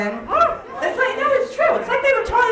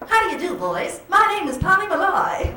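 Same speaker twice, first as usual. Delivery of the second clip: put-on 1940s movie girl; 6 semitones higher than usual. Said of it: "you'd say something like".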